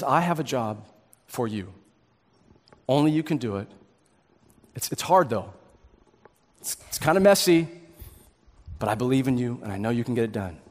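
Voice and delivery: low, soft, confiding appeal; quietly entrust them with a hard job; hushed, earnest ask; admired person's request. Acted. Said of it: "Imagine that that person comes to you".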